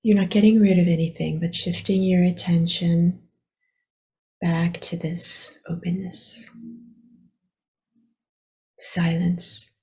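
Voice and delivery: unhurried meditation guidance with long pauses; guided meditation. Acted. Teacher guiding listeners to relax their attention, unhurried meditation voice. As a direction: gently lead them inward, leaving long silences.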